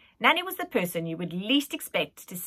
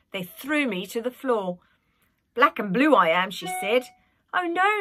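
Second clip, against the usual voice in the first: put-on old nanny voice; 2 semitones higher, 4 dB louder than usual. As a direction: cluck over him like a nanny. Nanny telling of her bruises.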